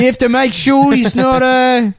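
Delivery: high, hammed-up parent voice; mock worried parent.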